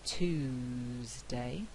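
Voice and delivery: "Tuesday" as "Toozday" with no y; yod-dropped Tuesday. Shown as a demonstration. Teacher demonstrating American yod dropping. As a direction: drop the y, "Toozday". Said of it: "what we have there is called yod dropping".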